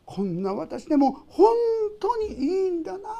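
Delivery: laughing through tears; tearful relief. Pretend. Believer overwhelmed by forgiveness, laughing through tears. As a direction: let relief break into tears.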